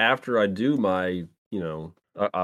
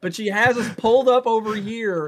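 holding back laughter; 12 semitones higher, 4 dB louder than usual. Real, not acted. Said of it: "Dan is holding back laughter".

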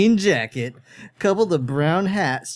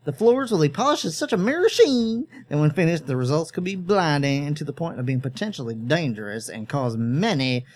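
rambling. Acted. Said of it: "Ernest rambled on".

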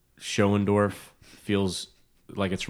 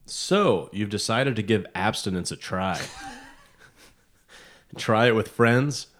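ad read. Acted. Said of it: "I feel like I'm reading an ad".

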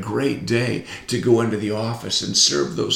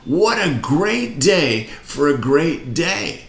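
higher and slower, with more push; more energy; 5 semitones higher, slower than usual. Shown as a demonstration. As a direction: lift it up for the crowd. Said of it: "Little more".

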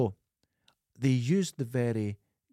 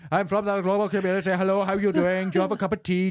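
quirky alien believer voice; 4 semitones higher, 4 dB louder than usual. Retold or imitated. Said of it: "he goes".

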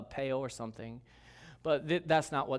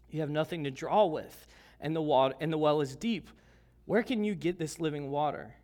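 scripture reading. Acted. Reading scripture aloud to congregation.

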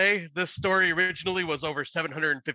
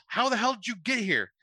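mock scream; 7 semitones higher than usual. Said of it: "Beth screams".

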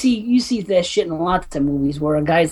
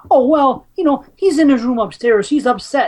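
imitating the wife; 5 semitones higher than usual. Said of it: "the lady says".

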